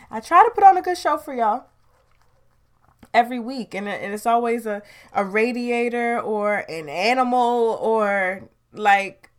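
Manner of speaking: venting real frustration at the noise; frustrated outburst. Real, not acted. Podcaster venting to listeners about noise, exasperated and loud. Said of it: "I'm just frustrated".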